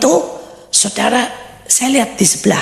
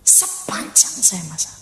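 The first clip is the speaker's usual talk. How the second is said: whispered; 3 semitones lower, 7 dB quieter than usual. Shown as a demonstration. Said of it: "saya dengar lagu".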